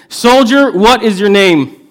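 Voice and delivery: sharp, high, loud stern demand. Acted. King staring down the soldier, very stern and loud. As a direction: bark the question down at him. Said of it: "looks at him very sternly".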